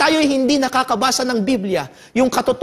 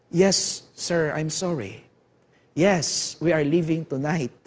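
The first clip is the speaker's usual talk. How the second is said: fearful confession; 6 semitones lower, 5 dB quieter than usual. Retold or imitated. Prisoner confessing in fear.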